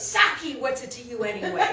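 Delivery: quick retold retort, loud first word; real hateful. Drunk whipping round on the friendly old man, hateful. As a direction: throw it back with mock hostility. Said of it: "He's like, real hateful".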